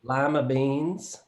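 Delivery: put-on Southern Mississippi accent. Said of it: "I'll do my best".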